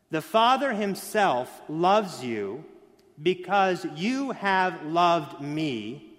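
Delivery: slow, half-sung reading of the verse; slow intoned scripture. Shown as a demonstration. Pastor reading John to the congregation, slow and intoned. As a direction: draw the verse out like a chant. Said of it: "said twice, first slow".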